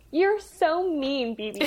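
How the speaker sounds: high, drawn-out pout; small pouty pixie voice, stretched out; pouty fire sprite. Acted. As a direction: whine it like a sulky little Tinkerbell. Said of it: "very pouty, like, Tinkerbell almost".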